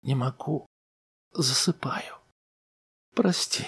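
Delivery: wife murmuring as she drifts off; drowsy murmur. A narrator's reading. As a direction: mumble as if under anesthesia. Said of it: "она пролепетала".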